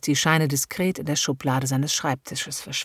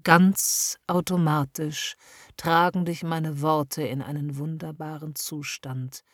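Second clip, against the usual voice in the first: hypnotic induction. A narrator's reading. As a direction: lull her into heaviness, slowly. Hypnotist leads trance induction.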